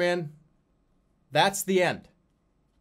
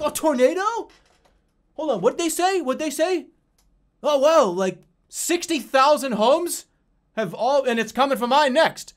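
much higher, louder, oblivious goofy voice; mock airhead; 11 semitones higher, 7 dB louder than usual. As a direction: play a clueless dude barely noticing the disaster. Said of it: "I would be like".

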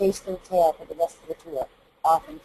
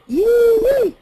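high yee; 9 dB louder than usual. Shown as a demonstration. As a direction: ring it out above the pencil. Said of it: "when I go".

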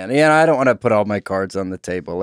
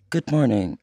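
robot voice; 4 dB quieter than usual. Shown as a demonstration. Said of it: "It's like".

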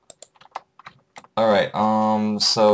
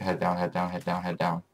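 hushed urging; 5 dB quieter than usual. Real, not acted. Quietly hiding from Enderman.

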